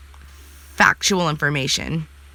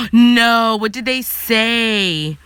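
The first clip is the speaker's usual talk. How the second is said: be floored by the news; gasping no; 3 semitones higher, much slower than usual. Real, not acted. Hearing that the writers went off on fans, gasping in surprise.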